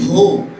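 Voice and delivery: drawn-out h in "ہو"; deep-throat ha. Shown as a demonstration. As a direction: demonstrate "ہو" slowly from the chest end of the windpipe. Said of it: "سینے کے پاس سے ونڈ pipe کا یہ حصہ".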